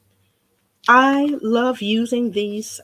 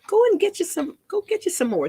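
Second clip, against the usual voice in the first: higher, bouncy sales push; excited urging; 11 semitones higher than usual. Real, not acted. Crafter urges viewers to go buy more paint, excited. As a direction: cheer them on to go buy.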